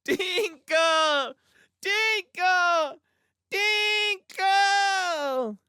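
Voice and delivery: high, rising yells; child yelling. A narrator's reading. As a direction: yell it like a bawling toddler. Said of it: "Morgan's yells of".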